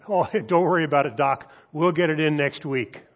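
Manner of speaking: fast, laughing, breezy brush-off; careless students. Retold or imitated. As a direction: laugh it off and rattle it out quickly. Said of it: "a hundred and fifty said".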